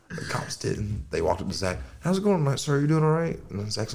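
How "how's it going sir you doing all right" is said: mock polite cop. Cop voiced in story.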